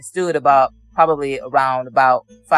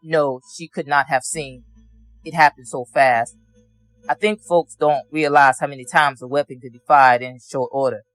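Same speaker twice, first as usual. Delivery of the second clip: ordinary talk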